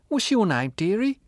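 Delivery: put-on high, loud boozy old woman; drunk old woman. A narrator's reading.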